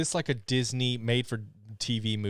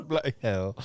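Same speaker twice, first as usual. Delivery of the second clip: mock British. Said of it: "All our British listeners".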